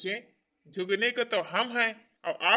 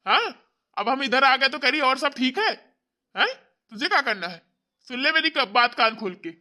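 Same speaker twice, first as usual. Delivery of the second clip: scolding; 2 semitones higher, 4 dB louder than usual. Acted. Brother scolds sister.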